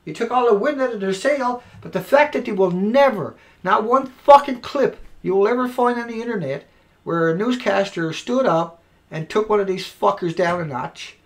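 usual speaking voice

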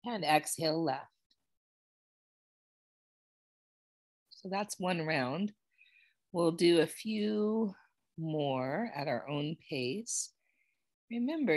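measured, soft-spoken breathing cues with long pauses; guided breathwork. Real, not acted. Yoga teacher leading students through alternate nostril breathing, calm and unhurried. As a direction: pace them calmly through each breath.

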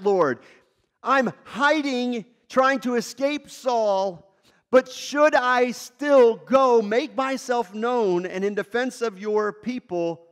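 slow, pleading prayer to the Lord; David praying. Acted. David asking the Lord for guidance, slow and earnest. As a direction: voice David asking God whether to go.

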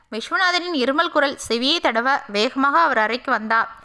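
ordinary delivery, nothing marked

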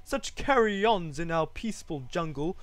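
high, indignant scolding; haughty, cross kangaroo complaint; snapping kangaroo. A narrator's reading. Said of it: "snapped the big kangaroo".

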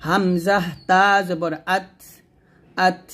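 আত with a puff of breath after the t; airy ta. Shown as a demonstration. Teacher drilling ta for learners, breathy stop. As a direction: spell slowly, then release air on the t of আত. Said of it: "তা বাতাস বের করবেন".

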